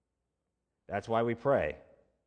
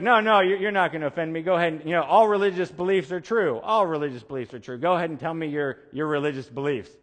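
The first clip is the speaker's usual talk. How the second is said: louder, higher insistent pastor voice; eager pastor; 4 semitones higher, 5 dB louder than usual. Retold or imitated. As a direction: push him to speak up, all keen.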